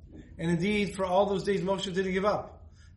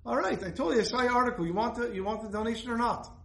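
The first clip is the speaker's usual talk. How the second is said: a hint of a brusque, impatient caller, higher; lightly voiced businesslike man pressing his point; mock no-nonsense caller on the phone; no-nonsense donor; 3 semitones higher than usual. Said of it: "obviously a no-nonsense person".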